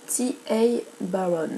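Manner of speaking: the author's name said in a self-mocking, slightly slowed English accent; bad English accent. Shown as a demonstration. A French book reviewer naming the author in her bad English accent. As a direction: give the name a clumsy English pronunciation. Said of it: "à l'anglaise avec mon accent pourri".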